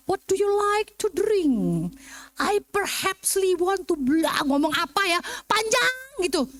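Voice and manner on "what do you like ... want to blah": slow, drawn-out mock British English. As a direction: ape a long-winded British speaker slowly. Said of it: "British ngomong".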